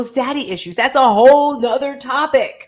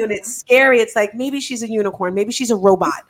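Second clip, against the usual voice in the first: ordinary talk, nothing marked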